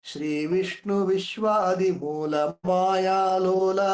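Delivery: slow, measured verse recital; drawn-out chanting of a classical verse; poem recitation. Shown as a demonstration. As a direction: recite the opening line slowly. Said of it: "ಶ್ರೀ ಅಂತಾನೆ ಆರಂಭ ಮಾಡ್ತಾರೆ".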